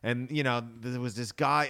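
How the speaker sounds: a touch of a local Boston witness; Boston interviewee. Retold or imitated. Recalling Boston street interviews on local news, light Boston accent. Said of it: "they'd be like".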